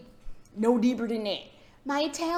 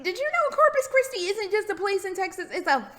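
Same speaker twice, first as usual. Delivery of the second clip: higher, lightly hammed-up astonishment; building to louder mock outrage; retold amazement; 6 semitones higher, 4 dB louder than usual. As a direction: share it like astonishing news. Acts out telling everybody the news.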